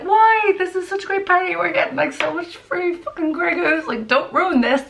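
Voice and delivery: put-on high, whiny party-girl protest; pleading not to leave the free vodka; high indignant whine; mock whiny protest. Friends protesting leaving great party.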